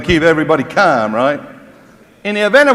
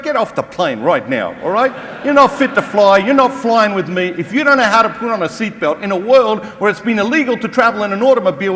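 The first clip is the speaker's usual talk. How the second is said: mock rant; 5 semitones higher than usual. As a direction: rant at passengers like a fed-up pilot. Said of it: "ranting as if the pilot".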